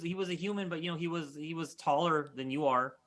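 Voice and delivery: a hint of an earnest boy; young boy character. Boy telling a stranger what the man looked like, earnest. Game master plays the boy.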